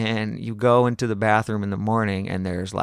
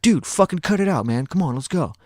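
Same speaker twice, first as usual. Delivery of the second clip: higher, louder, fed-up plea to a friend; exasperated urging; 7 semitones higher, 4 dB louder than usual. Retold or imitated. Rider tells drunk friend to come on, exasperated urging. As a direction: imitate someone telling a buddy to quit it.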